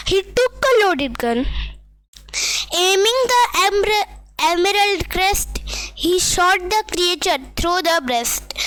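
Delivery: very slow, deliberate verse reading; poem recitation. Acted. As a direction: recite each phrase slowly, with breaks between. Recites poem lines slowly. (धीरे-धीरे रुककर कविता पाठ)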